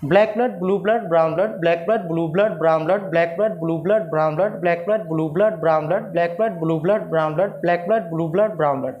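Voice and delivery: tongue twister repeated at an easy rhythm; steady tongue twister drill; relaxed practice pace. Shown as a demonstration. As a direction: drill it calmly, steady beat. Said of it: "simple कैसे practice करेंगे आप देख सकते हैं आराम से".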